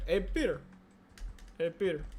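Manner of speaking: understated catchphrase impression; Hey Peter voice. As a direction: toss out the catchphrase low. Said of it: "doing the Ed Peter voice".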